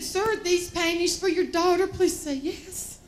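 imitating an embarrassed clerk; uncomfortable saleslady. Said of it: "She was very uncomfortable".

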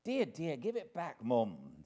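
high, brisk nursemaid giving orders; bustling nurse taking charge; bossy nurse voice. A narrator's reading. Nurse fussing over the baby.

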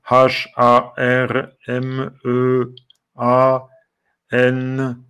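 slow letter-by-letter spelling; reading the letters one by one. Shown as a demonstration. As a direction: spell each letter out slowly. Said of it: "Là, c'est peut-être deux K et le A".

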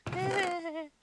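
brief chuckle after a burp; short laugh. Real, not acted. Player amused at burping, short laugh.

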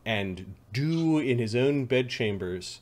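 slow, drawn-out dramatic narration; ominous game master. Acted. Game master teases what was studied in the bedchambers, ominous. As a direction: draw it out with dark, theatrical relish.

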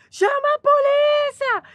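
high, loud, slow cry for help; imitated shout. Neighbor shouting on the street for police, high loud yell. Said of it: "a gente começou a ouvir".

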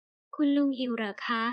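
slow, gentle caring question. Acted. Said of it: "ด้วยน้ำเสียงเอื้ออาทร". (ถามด้วยน้ำเสียงเอื้ออาทร ช้าๆ)

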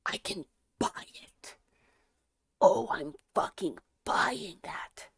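thrilled whisper, stretched out; giddy whisper. Real, not acted. Streamer finding she can buy it, whispering. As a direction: whisper it like a secret win.

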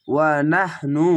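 ওয়া নাহনু drawn out slowly in tajweed style; slow Quran recitation. Shown as a demonstration. Teacher demonstrating ওয়া নাহনু to students, slow recitation. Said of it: "ওয়া জবর ওয়া".

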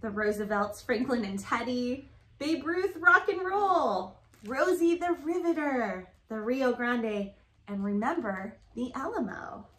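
rhythmic picture-book read-aloud; reading to children. Acted. Reading a rhyming alphabet book to Grace, sing-song read-aloud.

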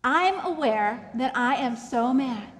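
slow, firm demonstration for others to try; measured self-awareness. Shown as a demonstration. Coach asks listeners to try it, slow and aware. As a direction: state the feeling slowly and deliberately. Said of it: "Try it".

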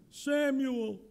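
lightly Jewish-accented calling of Samuel. Shown as a demonstration. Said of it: "just a hint of a Jewish accent there".

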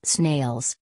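mild dismayed groan. A narrator's reading. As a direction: groan the word out, understated. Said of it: "groaned Jonathan".

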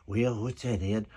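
a lightly voiced imitation of his co-star; Jimmy Seedow impression. Ed teasing the director, lightly voicing his co-star. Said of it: "I did Jimmy Seedow's voice".

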